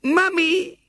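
put-on high, tearful cry of a child; crying little girl. A narrator's reading. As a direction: sob it out in relief to her mother. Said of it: "said Violet Elizabeth".

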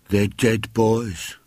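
slow, hushed and scared; small boy telling his friends a scary tale; fearful. A narrator's reading. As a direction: spook the others, slowly. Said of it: "in low, fearful tones".

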